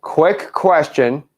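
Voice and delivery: very slow, each word apart; dictating. Shown as a demonstration. Coach feeding trainee two words to write, very slow dictation. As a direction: leave space between words for copying.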